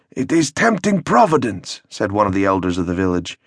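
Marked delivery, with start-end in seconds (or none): 0.1-1.8 solemn elder. Acted. Village elder warns.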